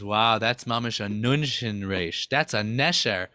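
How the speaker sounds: low, hushed-sounding admiration. Acted. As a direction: marvel gently at a bird, as Adam. Adam marvels at beautiful bird.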